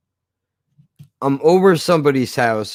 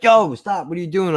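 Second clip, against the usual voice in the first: sharp call to stop, pitched up at the start; mock yell; 4 semitones higher than usual. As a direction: shout them down to stop. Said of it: "yell at them like".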